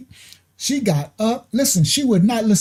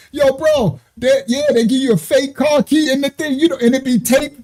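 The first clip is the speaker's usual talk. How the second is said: retold shout; 5 semitones higher than usual. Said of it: "I'm like".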